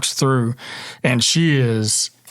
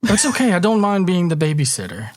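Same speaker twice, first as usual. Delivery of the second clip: put-on high-pitched babysitter voice; 5 semitones higher, faster than usual.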